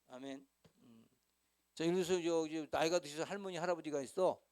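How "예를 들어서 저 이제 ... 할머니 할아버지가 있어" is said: ordinary talk, nothing marked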